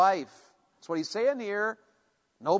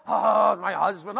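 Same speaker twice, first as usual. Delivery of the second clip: eye-rolling, put-upon groan; exasperated wife. Acted. Wife complaining about her husband, exasperated. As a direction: sigh it out wearily, drawing out the oh. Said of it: "Don't roll your eyes".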